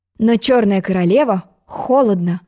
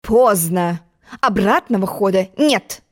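stern queen; slower than usual. Acted. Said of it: "сказала Чёрная Королева".

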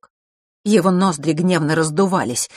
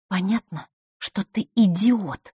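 raised, slowing exasperated insult; losing patience; 5 semitones higher, slower than usual. A narrator's reading. Vasilisa calls her brother an idiot, losing patience. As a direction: snap out of patience. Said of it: "не выдержала Василиса".

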